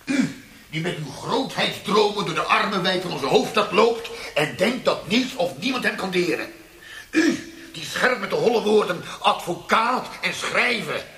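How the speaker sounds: loud, laughing, crazed tirade; manic ranting shout. Acted. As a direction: throw the word back at him, unhinged. Interrogator turns the accusation back.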